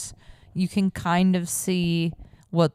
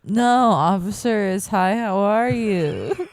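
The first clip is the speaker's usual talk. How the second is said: stoner; 2 semitones higher than usual. Retold or imitated. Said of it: "telling police officers that I'm high".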